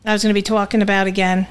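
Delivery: slipping into a New England accent; New England vowels on talking. Real, not acted. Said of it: "you slipped into your New England accent".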